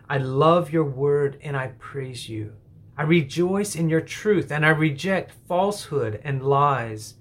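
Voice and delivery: earnest, unhurried prayer voice; spoken prayer. Acted. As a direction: pray it aloud with the listeners, sincerely. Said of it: "Pray with me now, please".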